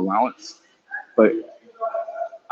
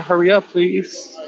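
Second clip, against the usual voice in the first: slowed repeat; 7 semitones higher, slower than usual. Real, not acted. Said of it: "I'm saying".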